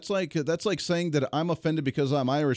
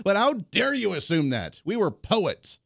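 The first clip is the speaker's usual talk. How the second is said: raised, hammed-up fake offence; mock outrage; 5 semitones higher than usual. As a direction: play the insulted Viking.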